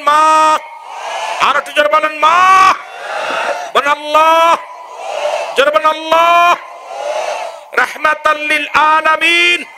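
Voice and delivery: fiery waz preaching. Acted. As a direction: preach to the crowd in full force. (উচ্চস্বরে ওয়াজের সুর)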